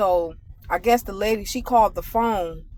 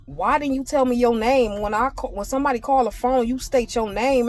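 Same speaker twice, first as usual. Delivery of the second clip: scolding; 3 semitones higher than usual. Retold or imitated. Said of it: "She's like".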